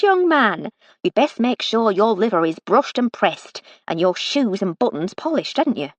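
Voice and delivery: lightly voiced motherly authority; a brisk hint of the kindly boss; Missus Ruddle, brisk. Missus Ruddle giving the young footman his promotion, brisk and motherly.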